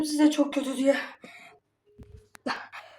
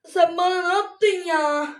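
man flu; 3 semitones higher, faster than usual. Real, not acted. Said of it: "Ağzım yanıyor".

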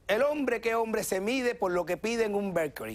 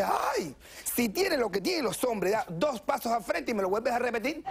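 mock gay man. Gay man challenges again, high.

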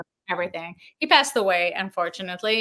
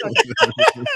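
a much higher, drawn-out okay; deflated okay; 14 semitones higher, 7 dB louder than usual. Retold or imitated. Artist answering faint praise from Alan, deflated okay. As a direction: let the compliment fall flat. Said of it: "I'm like".

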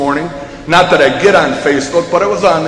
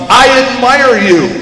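slow, higher, drawn-out call; storyteller's scream; 6 semitones higher, slower than usual. A narrator's reading. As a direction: call it out to the mountains. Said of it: "he screams to the mountains".

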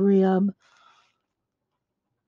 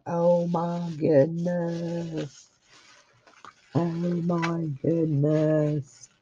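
awed hush; 2 semitones lower, 5 dB quieter, much slower than usual. Real, not acted. Awed at gift.

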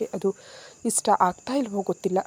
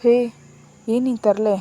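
startled; 3 semitones higher, 7 dB louder than usual. A narrator's reading. He is startled by her jump.

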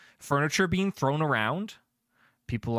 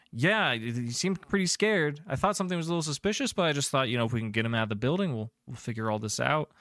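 lightly voiced guard, pitched up; hurried, higher-pitched account to an investigator; first guard; 4 semitones higher than usual. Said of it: "the familiar voice of the first guard".

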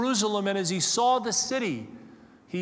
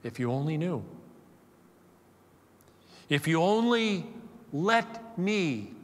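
a touch of Jesus grieving over the city; weeping lament; 2 semitones lower, slower than usual. Retold or imitated. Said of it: "he wept over it and said".

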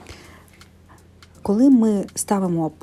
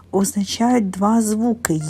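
два slowed and leaned on; slow down and hit два; stress on два; 2 semitones higher, slower than usual. Shown as a demonstration. Teacher stressing to children, два said slowly. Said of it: "коли ці букви".

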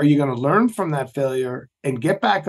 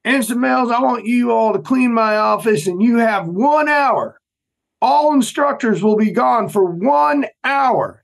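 higher, raised-voice Southern drill instructor; deep Southern accent; 7 semitones higher, 4 dB louder than usual. Retold or imitated. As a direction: give orders in a loud Southern accent. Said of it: "he had this deep Southern accent".

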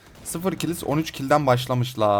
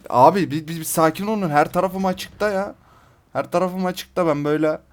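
panicky plea; 5 semitones higher than usual. Real, not acted. Exposed player begging enemies to calm down, panicky and high. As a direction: beg them to calm down, caught in the open.

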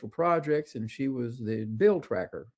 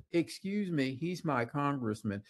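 wife telling off the guide, a touch of sternness; mock indignant warning; mild retold scolding; 3 semitones higher than usual. Wife scolds the tour guide with mild indignation. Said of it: "and she said".

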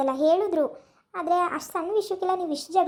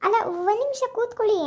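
higher pitched, pressing him to sit down; raised voice, please stay a minute; urgent plea; 6 semitones higher, 3 dB louder than usual. Acted. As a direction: catch him before he goes.

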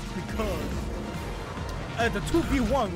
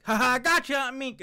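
taunting gotcha; 7 semitones higher, 5 dB louder than usual. Retold or imitated. Reactor acts out Rick's taunt.

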